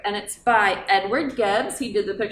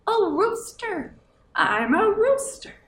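rooster; 10 semitones higher than usual. Acted. Animal answer in role.

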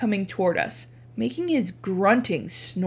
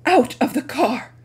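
deadly serious; 4 semitones higher, 5 dB louder than usual. Acted. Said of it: "deadly serious".

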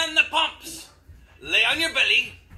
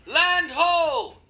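shouting from crow's nest; 4 semitones higher than usual. Shown as a demonstration. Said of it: "when I say".

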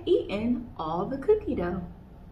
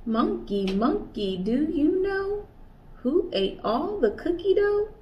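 higher, louder questioning call; curious kangaroo asking; 7 semitones higher, 3 dB louder, slower than usual. Acted. Kanga asking each animal.

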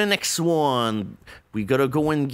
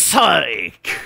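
loud teasing "psych"; playful shout; 3 semitones lower, 3 dB louder than usual. Real, not acted. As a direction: bark out the joke word. Shouts the running joke.

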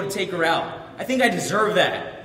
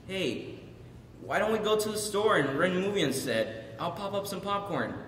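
hushed, much softer pleading; soft remorseful apology; 9 dB quieter than usual. Acted. Son apologising to his crying mom, soft and remorseful.

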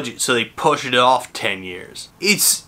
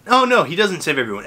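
ordinary delivery

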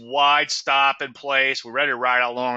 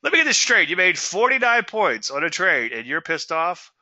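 much higher, louder disbelief; can't believe what he hears; incredulous friend; 6 semitones higher, 4 dB louder than usual. Retold or imitated. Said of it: "He's like".

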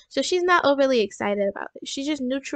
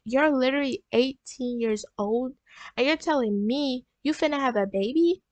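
retold parental disbelief, stressing each point; mock a scolding, incredulous parent lightly; a touch of outraged parent in the retelling; mildly mad parents. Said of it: "They was so mad".

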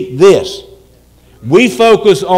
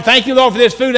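perfunctory, higher-pitched rattled-off prayer; unserious grace; 5 semitones higher, faster than usual. Acted. Family dropping down to pray before eating, unserious grace. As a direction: dash off grace without meaning it. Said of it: "there's no seriousness there".

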